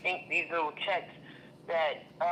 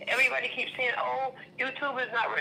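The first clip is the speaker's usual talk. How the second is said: heated; 7 semitones higher, faster than usual. Real, not acted. Upset rant about YouTube.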